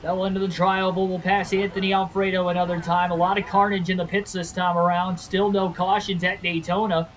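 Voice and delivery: announcer voice. Acted. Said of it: "I sound like the announcer".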